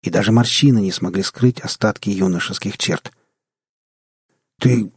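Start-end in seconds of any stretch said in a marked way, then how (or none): 4.6-4.9 halting, broken-off start; stammering. A narrator's reading. Stunned man starts addressing the old man-child, stammering. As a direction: falter between the two words. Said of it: "заикаясь, начал я".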